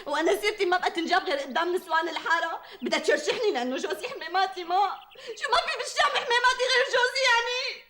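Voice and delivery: weepy, aggrieved protest; tearful complaint. Acted. Humiliated wife complaining about gossip, tearful. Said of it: "ومسحي دموعك بقى".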